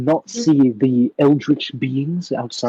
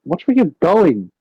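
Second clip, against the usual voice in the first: grumbling warning; 3 semitones higher, 4 dB louder than usual. Acted. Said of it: "kinda rubs it slightly and goes".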